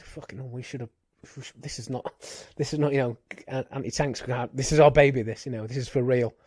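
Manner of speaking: frustrated rant building to a shout; exasperated outburst. Retold or imitated. Frustrated officer retold outburst.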